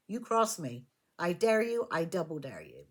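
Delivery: mock threat, dropping low at the end; menacing dare. Tarot reader voices the charging knight's challenge, menacing dare. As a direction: lay down a dare, sinking into a low finish.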